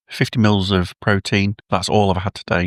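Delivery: talking while eating; words round a mouthful of food; mouth full. Real, not acted. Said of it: "I'm in the middle of eating".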